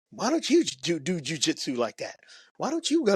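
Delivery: high-pitched mock girlfriend egging him on; mock nagging girlfriend. Woman in audience nagging her boyfriend, high mock voice. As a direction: jump way up in pitch to play a woman pestering her man. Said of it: "and homegirl's like".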